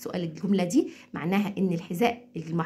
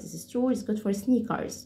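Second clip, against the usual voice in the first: quick American accent; slower than usual. Shown as a demonstration. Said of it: "زي الأمريكان أكسنت بالظبط بسرعة".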